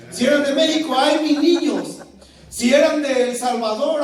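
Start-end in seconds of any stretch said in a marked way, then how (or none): 1.0-2.0 loud, drawn-out lament; mock wail. A Mexican imitates la Llorona's cry, mock wailing. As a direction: wail it out slowly, hammed-up.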